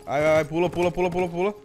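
urgent. Real, not acted. Panicked streamer urging jump.

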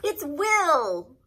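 high, loud panicked plea; shouted. A narrator's reading. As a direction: shout to stop the gunman. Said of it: "I shouted".

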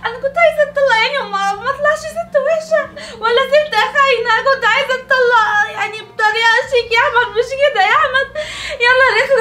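hammed-up sobbing lament, half laughing; theatrical crying with a giggle breaking through; comic wailing. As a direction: wail it out like a soap-opera heroine, overdone. Divorced wife wailing to Ahmed.

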